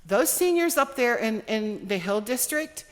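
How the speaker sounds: holding back tears, emotional; teary-eyed. Real, not acted. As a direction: voice on the edge of tears. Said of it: "I'm getting teary-eyed".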